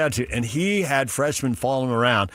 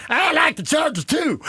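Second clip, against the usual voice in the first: put-on no accent, bro voice. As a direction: drop the accent, sound like a local jock. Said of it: "the accent is gone".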